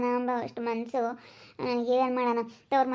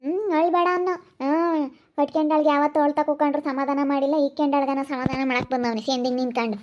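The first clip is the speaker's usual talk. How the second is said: angry shouting; 2 semitones higher, 6 dB louder than usual. Acted. Wife shouting at her husband about the other woman, furious. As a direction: yell it at him, livid.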